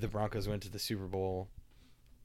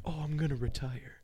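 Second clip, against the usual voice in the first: mocking Peyton Manning; 4 semitones higher than usual. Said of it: "him being like".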